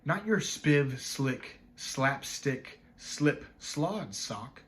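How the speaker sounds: slow, measured recitation with pauses; poem recital. Acted. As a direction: savor each rhyming word, separately and deliberately. Recites a sound-play poem.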